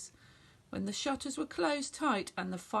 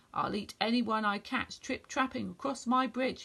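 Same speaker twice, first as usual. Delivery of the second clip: mild growl. Acted. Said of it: "he growled fiercely".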